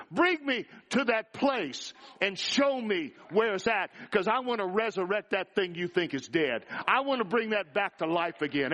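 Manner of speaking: slow, swelling sermon cry, rising to a peak; preaching build. Acted. Pastor calling his congregation to bring their dead dreams, swelling preaching. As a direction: plead it as Jesus, building to the climax. Preacher voicing Jesus's call.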